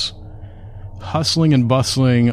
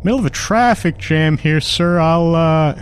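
high, hesitant servant voice raised well up; nervous driver; 8 semitones higher than usual. Acted. Carriage driver nervously answering his master, high and hesitant. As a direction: stammer it out like a flustered coachman.

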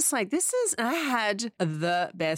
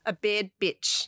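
put-on New Zealand accent. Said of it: "imagining in a New Zealand accent".

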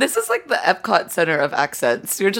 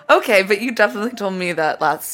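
loud; 2 semitones higher, 5 dB louder than usual. Acted. Pressing the interviewee.

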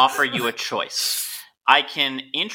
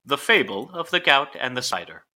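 storytelling voice. Shown as a demonstration. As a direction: announce the fable's title like a storyteller. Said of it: "audible storytelling voice".

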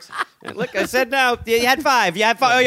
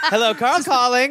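higher, slow, put-on phone voice; mock caller voice; 6 semitones higher than usual. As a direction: parody Carl calling himself. Mocking his lady voice attempt.

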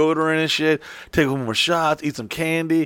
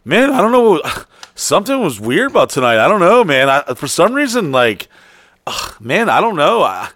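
higher, louder sheepish excuses; mock excuse-making; 5 semitones higher, 4 dB louder than usual. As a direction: fumble for an excuse. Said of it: "you're like".

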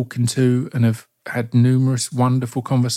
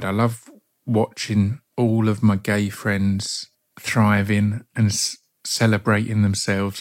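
smiling voice; slower than usual. Real, not acted. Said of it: "you can hear the smile on my face".

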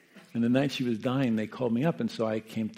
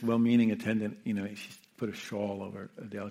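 normal talking voice

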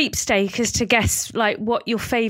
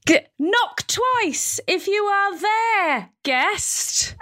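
seance medium; 8 semitones higher, slower than usual. Pretend. Lou plays a seance medium.

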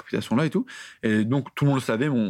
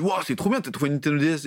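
mock delight. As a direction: play the kid dazzled by the console. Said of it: "je dis". (émerveillement imité, plus aigu)

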